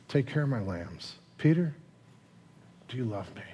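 hushed, with long pauses; tender. Acted. Jesus asking Peter a third time, tender hush. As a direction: ask softly, leaving space after the name.

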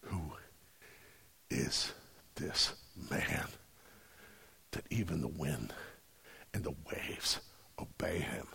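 hushed, halting near-whisper, very low; awed fear. Retold or imitated. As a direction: barely dare to say it, pausing between words. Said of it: "are more afraid of the dude standing".

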